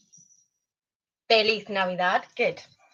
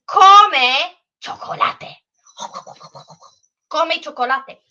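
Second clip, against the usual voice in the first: slow, higher, louder call; sing-call it to the class; 4 semitones higher, 5 dB louder, slower than usual. Shown as a demonstration. Teacher calling out song line.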